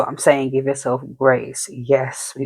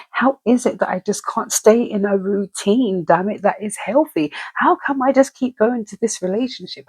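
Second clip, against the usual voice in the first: higher, pleading run of why-me questions; frustrated self-questioning; 5 semitones higher than usual. Retold or imitated. Frustrated person asking themselves why life won't change, pleading. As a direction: ask yourself why it keeps going wrong.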